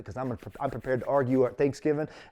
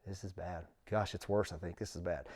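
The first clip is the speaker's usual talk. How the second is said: inner voice; 4 semitones lower, 8 dB quieter than usual. Retold or imitated. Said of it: "in my head I'm going".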